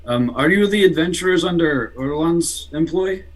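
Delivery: put-on a poor Russian accent, half-hearted. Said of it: "It's a very poor Russian accent".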